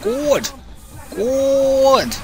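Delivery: sing-song cheer. Real, not acted. Cheering a successful hit.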